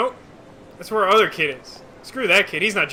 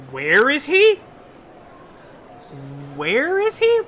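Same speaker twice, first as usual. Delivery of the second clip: mock panic; 5 semitones higher, slower than usual. Searching for lost child.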